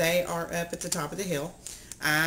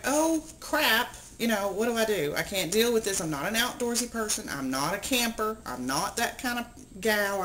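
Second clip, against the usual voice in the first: higher-pitched retold dismay; mock dismay; 4 semitones higher than usual. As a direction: act out a mildly exasperated "can't cope" reaction. Voices her reaction to spiders.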